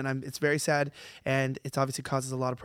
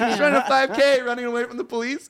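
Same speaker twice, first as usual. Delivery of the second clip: very high, loud, cheery imitation; lighthearted; 9 semitones higher, 7 dB louder than usual. Imitating Aussie protester running from police, high lighthearted voice. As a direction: make fleeing sound like a fun jog, pitched high. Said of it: "they keep it lighthearted all the time".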